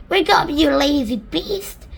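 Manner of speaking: slow, loud wake-up yell; shout. Acted. Centipede yelling to wake the glowworm, slow loud shout. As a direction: bellow at the sleeper.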